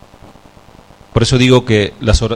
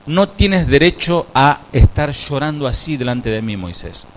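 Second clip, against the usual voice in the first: stern God voice; 2 semitones higher than usual. Acted. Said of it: "quizás Dios le dijo".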